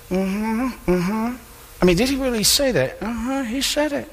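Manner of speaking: a scribe nodding along under his breath; scribe agreeing. Retold or imitated. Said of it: "them saying to one another".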